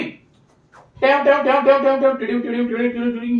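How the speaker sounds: rhythmic "tam-tam" turning into "tiding"; playful run of imitated step noises; motion sound effect. Shown as a demonstration. Teacher tracing motion up to a point, rhythmic sound effect.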